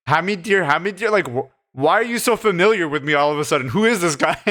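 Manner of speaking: retold huffy challenge, rising into a laugh; snapping sarcastically. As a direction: imitate an irritated, sarcastic snap. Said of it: "when he snaps at the husband".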